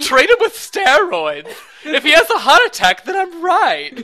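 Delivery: cranky genius doctor, breaking into laughs; House impression. Gamers joking as Doctor House, laughing. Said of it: "whenever I do that voice".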